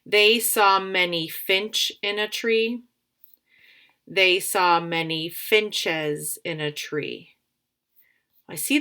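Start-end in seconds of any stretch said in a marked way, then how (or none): 0.1-2.8 slow trial reading. Shown as a demonstration. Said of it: "use both words when I read". 4.1-7.3 slow trial reading. Shown as a demonstration. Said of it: "use both words when I read".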